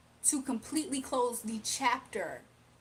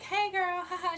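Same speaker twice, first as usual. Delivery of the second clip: cutesy giggly hello, pitched up; giggly greeting; 5 semitones higher than usual. Retold or imitated. Imitating the shy reader's cutesy giggly hello. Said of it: "She's a little bit giggly".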